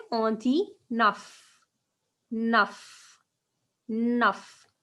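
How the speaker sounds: neuf said slowly as nuff; slow model pronunciation. Shown as a demonstration. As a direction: stretch On dit neuf for learners. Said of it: "Comment on dit nine".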